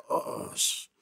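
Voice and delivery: breathless unvoiced oh sh-; whispered oh sh-. Realizing the agent is there, a whispered cut-off curse.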